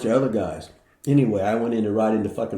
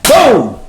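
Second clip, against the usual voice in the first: loud mock boom; 10 semitones higher, 13 dB louder than usual. Sudden hit in the back.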